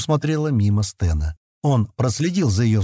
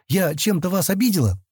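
higher, uneasy question; faltering; 8 semitones higher than usual. A narrator's reading. Girl afraid she has offended Sten, hesitant question. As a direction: ask anxiously, pitched up. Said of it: "запинаясь, спросила она".

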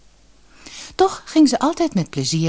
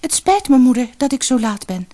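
put-on much higher, louder pleading girl; girl apologizing; 8 semitones higher, 5 dB louder than usual. Scolded daughter to her mother, high pleading apology. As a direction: beg mother's pardon, high and earnest.

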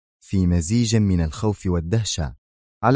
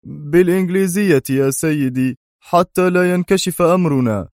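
higher, submissive reply; resigned; 9 semitones higher, 4 dB louder than usual. A narrator's reading. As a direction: answer as if giving up. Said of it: "أجاب جوزيف باستسلام". (استسلام بصوت أعلى)

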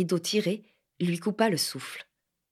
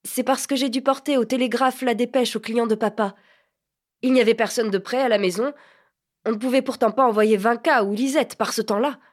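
louder, stung justification; sour cry; 4 semitones higher, 4 dB louder than usual. Acted. Flustered boy loudly justifies his clothes to the lady. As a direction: defend yourself hotly, voice raised. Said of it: "cria-t-il d'un ton aigre".

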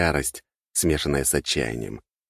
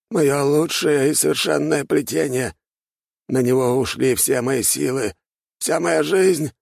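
very high, slow, louder panicked plea; cling to disbelief; terrified archmage can't believe his enemy lives; desperate disbelief; 10 semitones higher, 3 dB louder than usual. A narrator's reading. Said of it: "неподдельный страх".

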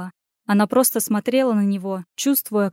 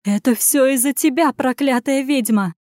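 raised, higher voice, slowing on the curse; angry accusation; 4 semitones higher, 3 dB louder than usual. Acted. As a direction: lash out with blame. Lady accuses and raises whip.

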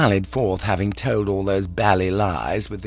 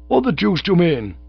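high, indignant outburst; indignant young gent; 9 semitones higher, 4 dB louder than usual. A narrator's reading. Cyril challenging the manager from the stage, high indignation. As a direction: protest in offended high pitch.

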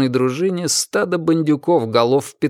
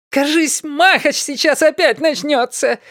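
much higher, slow gleeful squeal; a thrilled high-pitched shriek from the crowd; excited squeal. A narrator's reading. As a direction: squeal with delight at the coming fight. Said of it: "восторженный визг".

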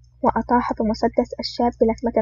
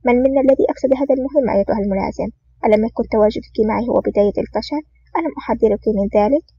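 angry retort. Acted. Officer rebukes his partner in the helicopter, angrily. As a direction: snap back at her quickly, annoyed. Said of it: "ثم قال بغضب".

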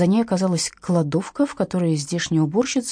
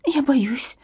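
higher, small scared squeak; 6 semitones higher than usual. A narrator's reading. Katya admits fear to Irina, squeaked. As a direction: pipe it up, frightened. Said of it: "пискнула Катя".

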